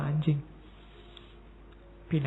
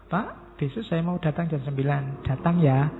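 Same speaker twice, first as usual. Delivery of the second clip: gentle, pleasant request; romantic reading. Shown as a demonstration. Lecturer reading a student's message as friendly. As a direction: read the student's text sweetly. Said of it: "saya membacanya romantis kan jadi enak".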